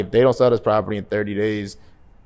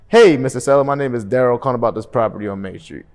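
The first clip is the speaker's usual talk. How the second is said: energetic greeting; 4 dB louder than usual. Shown as a demonstration. Agent opening a call to a seller, energetic and upbeat. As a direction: sound glad to be on the call. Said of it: "my tone is always".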